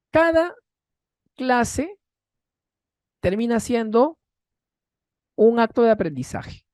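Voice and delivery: solemn, spaced-out teacher emphasis; slow emphatic build. Real, not acted. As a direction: lay it out word by word, with weight. Teacher's key closing point.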